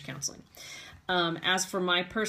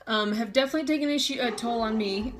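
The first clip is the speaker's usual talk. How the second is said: higher, faster, near tears; tearful push through; 4 semitones higher, 3 dB louder than usual. Real, not acted. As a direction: force the words out past tears. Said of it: "trying to recompose myself".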